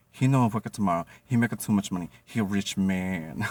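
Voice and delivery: lightly mock the boss's broken English; mimicking Jenny's broken English. Boss telling the sushi chefs in a lightly mocking voice. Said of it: "None of those words came out of my mouth".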